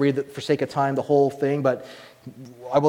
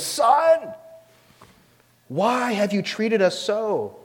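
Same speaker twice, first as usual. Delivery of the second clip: mild rebuke; 7 semitones higher, much slower than usual. Retold or imitated. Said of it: "Mary gives this rebuke to him".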